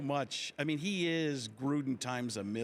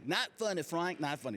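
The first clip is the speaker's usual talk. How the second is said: a light Bradshaw scolding; mock-stern Bradshaw; Terry Bradshaw impression; 2 semitones higher than usual. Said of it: "Terry Bradshaw was easy".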